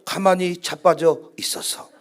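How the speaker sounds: lightly done Jeolla-dialect paraphrase. Shown as a demonstration. Preacher rewording Moses for the congregation, in Jeolla dialect. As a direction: put it in homely Jeolla speech, understated. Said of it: "전라도 말로".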